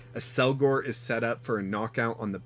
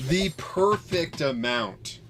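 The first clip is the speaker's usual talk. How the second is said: slow, higher, relishing each word; drawn out with delight; savoring it; 5 semitones higher, slower than usual. Real, not acted. Repeats phrase slowly, higher.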